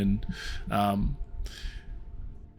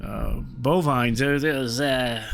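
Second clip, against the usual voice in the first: chatty dwarf voice. Acted. Dwarf chats about raptors.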